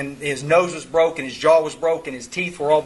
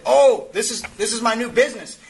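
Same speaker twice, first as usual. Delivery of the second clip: higher-pitched proud announcement, retold; acted excitement; 6 semitones higher than usual. Terry showing his sponsor the new business, imitated excitement. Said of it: "he was all excited about this thing".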